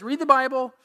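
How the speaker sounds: put-on high, lilting old grandmother; grandmother's voice. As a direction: mimic grandma's singsong advice. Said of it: "She says".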